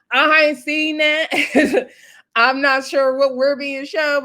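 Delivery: high, drawn-out disbelief; amused, incredulous protest; disbelieving. Real, not acted. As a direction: stretch it out high, about to laugh. Disbelieving aside about the show.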